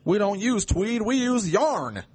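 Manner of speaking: high voice, slowing on the last words; silly put-on voice. Quiz player joking to co-host about tweed, silly high voice. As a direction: pitch it high and draw out the punchline.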